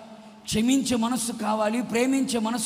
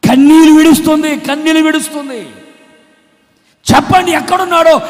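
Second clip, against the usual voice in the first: preaching; 6 semitones higher, 16 dB louder than usual. Real, not acted. Preaching climax.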